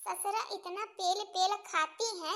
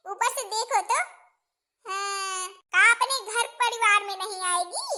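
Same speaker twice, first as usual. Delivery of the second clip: bossy mother-in-law; 3 semitones higher, 7 dB louder than usual. Acted. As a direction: lay down the law like a village mother-in-law.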